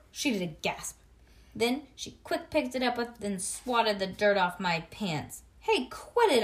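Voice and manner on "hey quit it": loud, higher yell; louder, higher yell. Acted. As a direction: snap at her to stop. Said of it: "I yelled".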